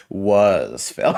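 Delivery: giggling through the words; laughing. Real, not acted. Player cracks up repeating the joke, laughing. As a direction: laugh as you say it. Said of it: "repeating Phil joke".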